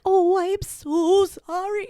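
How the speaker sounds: high, slow, sugary fake apology; high drawn-out mock apology. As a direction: coo it out like an overdone sorry. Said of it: "When somebody's like".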